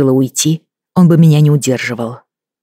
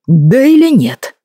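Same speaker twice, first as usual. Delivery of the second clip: demanding husband; 7 semitones higher, 3 dB louder, much slower than usual. A narrator's reading.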